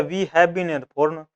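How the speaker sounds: each word drawn out very slowly; slow classroom dictation. Shown as a demonstration. Teacher reads example sentence.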